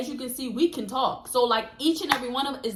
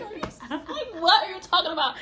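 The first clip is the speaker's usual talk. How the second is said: higher, laughing disbelief; incredulous; 3 semitones higher than usual. Retold or imitated. Friend reacting to the Atlanta idea, incredulous laughing. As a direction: react as if it's absurd.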